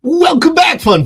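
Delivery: high, loud, bright welcome; excited greeting. Real, not acted. Host welcoming back his fans, excited and loud. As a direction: greet the fans with a burst of energy. Greeting viewers at stream start.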